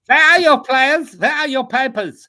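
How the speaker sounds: loud, high, hammed-up coach shout; Hansi Flick. Co-host answers a requested coach bit, high shouted impression. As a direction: bellow it like a mock interrogation. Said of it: "a, a Hansi Flick, uh, thing".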